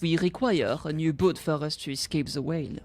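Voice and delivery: lightly voiced French-accented character. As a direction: speak formal English with a French accent. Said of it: "What if he's not French?".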